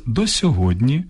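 «до сьогодні» said clearly and deliberately; correct form, careful. Shown as a demonstration. Радіоведучий показує слухачам правильний вираз, чітко й виразно. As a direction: show the right phrase «до сьогодні». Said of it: "Краще сказати".

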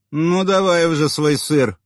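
high loud impatient snort; scornful snort. A narrator's reading. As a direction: huff it out impatiently. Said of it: "фыркнула она".

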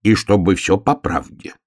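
measured, insistent little-bear order; stern. Acted. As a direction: order it firmly, word by word. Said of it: "строго сказал медвежонок". (строго, наставительно)

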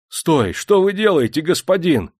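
high, urgent cry; alarmed protest. A narrator's reading. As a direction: rush in to stop the master. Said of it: "бросился он к заводчику".

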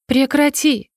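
a sudden high cry of protest; girl cries out at her friend to stop, high; shout. A narrator's reading. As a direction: cry out to make him stop. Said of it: "Мой крик спугнул птиц".

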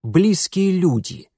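icy, pointed comeback; cold retort. A narrator's reading. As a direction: rap it out coldly. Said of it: "холодно отчеканил Митя".

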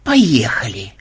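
husky, whispery mutter. A narrator's reading. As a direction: mumble it under the breath. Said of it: "пробормотал Ксенобайт".

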